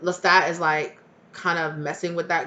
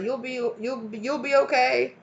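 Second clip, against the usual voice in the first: higher-pitched little comforter; mock reassurance; 5 semitones higher than usual. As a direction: soothe a hurt friend in a small, raised voice. Penguin comforting hurt friend.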